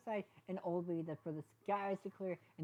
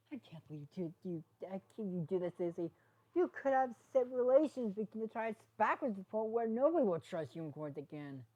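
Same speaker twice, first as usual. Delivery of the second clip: frustrated; 4 semitones higher, 4 dB louder than usual. Acted.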